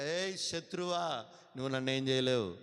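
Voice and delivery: a fierce rebuke, fully voiced; bold defiant shout. Shown as a demonstration. Pastor showing the church how to rebuke the enemy, loud defiant shout. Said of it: "అప్పుడు చెప్పాలి గట్టిగా".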